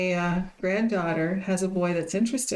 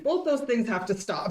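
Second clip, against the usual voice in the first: laughing; 2 semitones higher than usual. Retold or imitated. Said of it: "He said".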